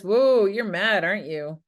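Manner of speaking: slow, pointed mock accusation; accusing. Shown as a demonstration. To the spouse, a pointed mock accusation. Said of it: "If you've said to your spouse".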